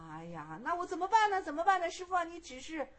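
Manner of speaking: high-pitched, helpless plea; pleading. Acted. Monk begging master for guidance, pleading. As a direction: beg for help, lightly acted.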